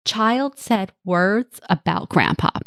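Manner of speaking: calm even neutral statement; detached and slow, no charge. Shown as a demonstration. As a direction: say it flatly neutral, slowly. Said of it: "As neutral as you can possibly get it".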